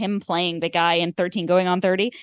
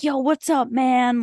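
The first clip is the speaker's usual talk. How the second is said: higher-pitched imitation of a friendly bro; broey greeting; 5 semitones higher, slower than usual. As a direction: greet him like a laid-back bro. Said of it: "He's just, like, a bro. Like, he's like".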